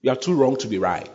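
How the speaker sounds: lightly voiced accusing devil; devil's voice. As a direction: whisper doubts like a tempter. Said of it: "This is the devil talking to you".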